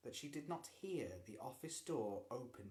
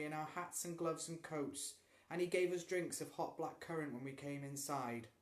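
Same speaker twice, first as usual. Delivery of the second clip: calm, even voice; 5 semitones higher, 5 dB louder than usual. A narrator's reading. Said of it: "In a perfectly calm, even voice".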